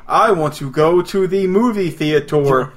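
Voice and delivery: slow, carefully spaced robot voice. Retold or imitated. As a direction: talk like a robot to a phone. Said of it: "You have to talk like a robot for the text-to-speech stuff".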